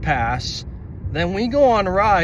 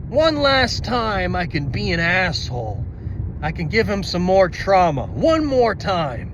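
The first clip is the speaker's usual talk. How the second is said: gloating villain; 3 semitones higher than usual. Retold or imitated. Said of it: "it was like".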